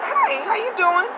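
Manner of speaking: high, slow, bright hello; overly cheerful greeting. Retold or imitated. Driver greeting silent toll man, high and syrupy. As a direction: greet him extra sweetly, stretching it. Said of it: "and I would say".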